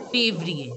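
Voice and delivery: février with the é said as "ay"; février, clear closed "ay" vowels; French accented é. Shown as a demonstration. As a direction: say février as "fay-vree-ay". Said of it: "it is to be pronounced as A".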